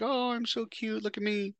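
high, soft, sugary put-on girl voice; mock cutesy girl. Mocking Rachel playing innocent to fool the men, high, soft and cutesy. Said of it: "playing the cutesy little innocent little Filipino girl".

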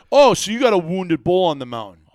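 acted-out disbelief; incredulous. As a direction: jump to the conclusion, astonished. Teller acts his challenging question.

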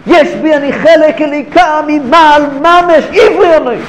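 a prophet declaring who he is, climbing in pitch; proud declaration. Acted. Jonah telling the sailors he is Hebrew, building proud declaration. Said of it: "והוא אומר להם".

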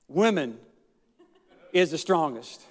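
chuckling through the words; amused low chuckle on women; laughing. Real, not acted. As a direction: say it with a laugh breaking in. Quoting third man, chuckling.

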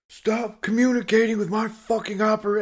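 high-pitched mock telling-off; imitated yelling. Journeyman telling off the safety guy, yelling in imitation. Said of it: "same guy that was yelling at the apprentice".

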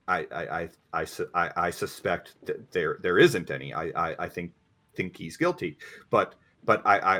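alarmed, stammering uh-oh; nervous stuttering lawyer. Acted. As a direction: caught off guard, stumbling. Lawyer admits the case is hopeless.

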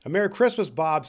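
hearty, sincere exclamation; earnest greeting. Acted. Scrooge surprises Bob at his house, greeting earnestly. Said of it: "said Scrooge with an earnestness that could not be mistaken".

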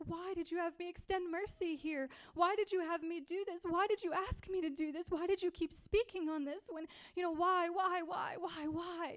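retold frustrated outburst, building on the repeated why; upset questioning. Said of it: "I started to get upset".

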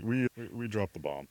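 softly stammered mock confession; imitating a soft, guilty mumble; sheepish admission. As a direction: own up sheepishly, voice dropped. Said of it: "he just sheepishly looks down".

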